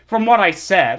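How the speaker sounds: loud, slow incredulous anger; real exasperated shout. Real, not acted. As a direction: hurl the question in disbelief. Furious at misreading comment.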